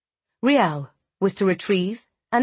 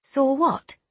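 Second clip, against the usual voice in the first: put-on sleepy little girl; 6 semitones higher than usual. A narrator's reading. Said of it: "she'd mumbled sleepily".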